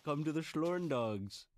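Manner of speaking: slow, beckoning fake German; mock German accent. Inviting co-host to invented mountains, mock German accent. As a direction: invite them slowly in a put-on German accent. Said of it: "I am your typical German subject".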